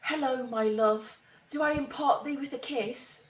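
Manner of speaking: breathy hollywood starlet. Acted. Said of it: "that breathy voice".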